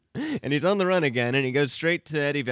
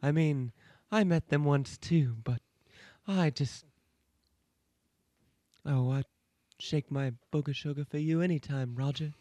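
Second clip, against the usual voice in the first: Jessica Rabbit voice. Retold or imitated. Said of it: "pretty good Jessica Rabbit".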